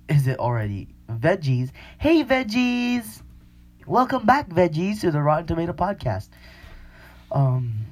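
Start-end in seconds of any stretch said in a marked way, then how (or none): 2.0-6.3 podcast host greeting. Acted. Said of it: "podcast intro greeting".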